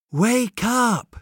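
a high call to rouse someone; calling wake up. Acted. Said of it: "he hears softly".

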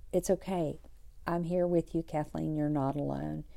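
a quiet promise to Kathleen that she is not alone; gentle reassurance. Pretend. Voice of God reassuring Kathleen, gentle and soft. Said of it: "That's what the voice of trust sounds like to me".

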